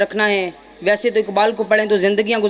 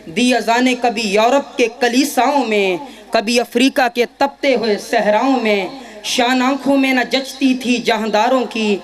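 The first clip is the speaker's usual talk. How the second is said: measured declamation of Urdu verse; poetry recitation. Acted. Student reciting Iqbal's complaint to God before an audience, declamatory recitation. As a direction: recite in rhythmic couplets, leaning on each rhyme.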